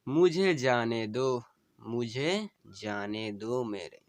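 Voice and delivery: slow, tender recital of a dying wife's plea; dying wife's farewell. Acted. Wife bidding her husband farewell, tender and pleading.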